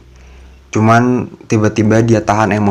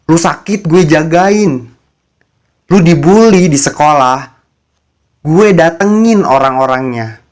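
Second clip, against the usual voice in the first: retold angry outburst; 5 semitones higher than usual. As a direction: replay his furious jealous tirade, pitch climbing. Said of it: "Dan dia malah marah-marah sama gue". (marah meledak-ledak, nada makin tinggi)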